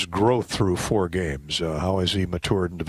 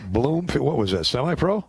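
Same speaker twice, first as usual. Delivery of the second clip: higher-pitched, puzzled check-back; curious surprise; 5 semitones higher than usual. Real, not acted. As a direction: ask it as if it's news to you. Asks about unfamiliar team name.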